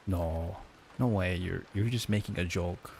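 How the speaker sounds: lightly put-on German accent; mock German accent. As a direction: imitate a German friend protesting in accented English. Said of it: "make fun of his accent".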